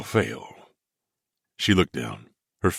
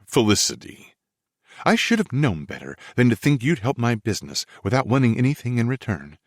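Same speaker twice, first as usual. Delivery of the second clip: put-on indignant young woman; 4 semitones higher than usual. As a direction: voice her huffy and hurt. Felicity angry, voiced by narrator.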